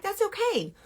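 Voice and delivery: high, gentle soothing; reassuring. Acted. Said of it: "And you're like".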